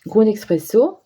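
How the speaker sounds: English product name in a French accent; real French accent on English words. Real, not acted. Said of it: "très bel accent anglais".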